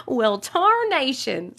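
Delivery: mock cowboy drawl. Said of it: "I got a lot now".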